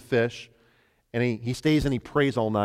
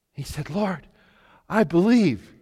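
hushed; 5 semitones higher than usual. Acted. Climax of the healed man.

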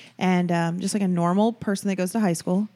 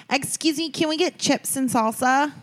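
higher-pitched polite ask; asking with a raised, questioning voice; polite customer request; 6 semitones higher than usual. Retold or imitated. Customer asking at an Argentinian restaurant, high polite request.

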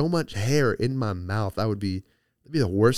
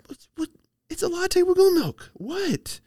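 much higher squeaky pretend-baffled voice; mock innocent squeak; 4 dB louder, slower than usual. Teasing girlfriend with a squeaky feigned confusion. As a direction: play dumb in a silly high voice. Acting dumb about goat milk prank.

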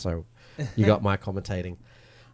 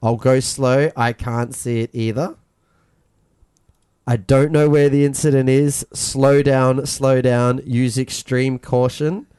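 driver radio reply; 4 dB louder than usual. Retold or imitated. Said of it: "Then Fabian goes".

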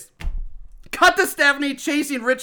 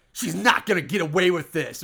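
lower, deliberate movie-villain vow; low, ominous mock-dramatic line; vowing Arlene; 6 semitones lower, 4 dB quieter than usual. Arlene in close-up about Stephanie, ominous vow. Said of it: "And Arlene's like".

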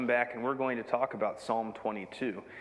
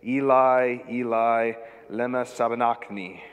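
louder anguished cry in Aramaic; a desperate cry, raised; 2 semitones lower, 5 dB louder than usual. A narrator's reading. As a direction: call the words out to heaven. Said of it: "cried out in a loud voice".

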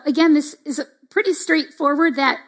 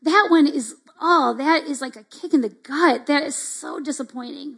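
matching sympathy; slower than usual. Shown as a demonstration. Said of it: "or we match, like".

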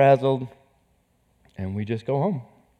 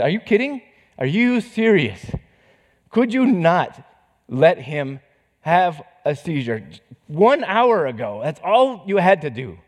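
raised, pleading accusation; angry rant at God; 5 semitones higher than usual. Retold or imitated. Father railing at God over his son, raised and anguished. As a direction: hurl each question upward.

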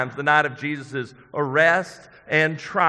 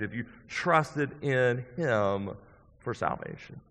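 quiet appeal; 4 semitones lower, 7 dB quieter, slower than usual. Real, not acted. Preacher's intimate altar appeal.

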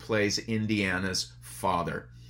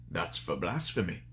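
low, softer Scottish-tinged rebuke; Sean Connery impression; 4 semitones lower, 5 dB quieter than usual. Father slapping his son for blasphemy, low stern Connery voice. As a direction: growl it out like a stern old father. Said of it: "I did my Sean Connery voice".

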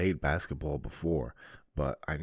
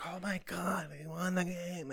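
high, breathless burst of awe; excited cheer; 13 semitones higher, 6 dB quieter than usual. Retold or imitated. A kid watching TV cheers a home run, high and thrilled.

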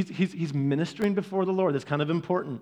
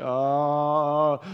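long, low "oh" of shower bliss; blissful groan; 4 semitones lower than usual. Acted. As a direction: sink into a drawn-out groan of pleasure.

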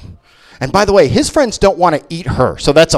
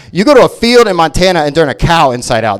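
ordinary talk

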